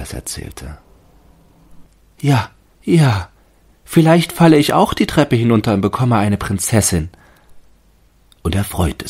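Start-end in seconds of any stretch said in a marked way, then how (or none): 2.2-7.1 hohe, lautere, gläubige Baumstimme; Stimme des Baumes. A narrator's reading. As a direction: als staunender Tannenbaum. Tree voiced. (hohe, überzeugte Baumstimme)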